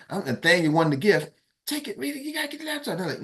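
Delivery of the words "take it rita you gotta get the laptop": much higher, softer chanting of the crowd; urging crowd. Retold or imitated. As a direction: egg her on like a crowd.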